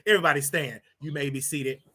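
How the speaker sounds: playing president in the Oval Office, mild and low; pretend president. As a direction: grant them leave to sit. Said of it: "I'm gonna pretend like this".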